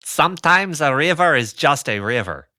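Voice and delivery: put-on botched Austrian accent drifting Mexican; Mexican-ish accent. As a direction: attempt a Freud accent that slips into Mexican-ish. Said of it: "went suddenly Mexican-ish with that".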